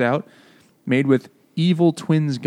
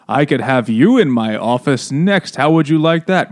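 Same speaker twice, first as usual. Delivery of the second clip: cartoonish evil villain; 2 semitones higher, 5 dB louder than usual. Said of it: "He was cartoonishly evil".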